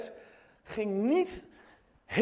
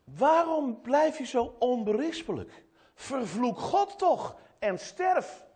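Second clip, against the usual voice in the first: higher, deliberate dramatic reading; acted reproach, each phrase set apart and pitched up; Job's wife's reproach; 5 semitones higher, slower than usual. Job's wife challenging her suffering husband, dramatic reproach. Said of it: "En dan zegt zijn vrouw".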